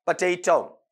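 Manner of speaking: "पोटैटो" as puh-TAY-tau; corrected potato. Shown as a demonstration. Teacher showing how it is read, corrected "puh-tay-tau". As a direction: say "पोटैटो" with a weak first vowel and au ending. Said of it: "इसे क्या पढ़ेंगे आपका?".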